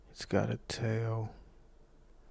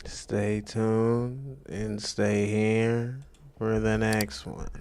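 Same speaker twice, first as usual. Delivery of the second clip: very slow, droning sign-off; monotone voice; much slower than usual. Retold or imitated. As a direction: drag it out in a monotone. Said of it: "Why do you sound so monotone?".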